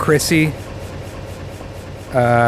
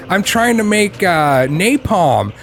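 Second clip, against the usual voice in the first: put-on innocent kid; 7 semitones higher, slower than usual. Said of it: "He's just like".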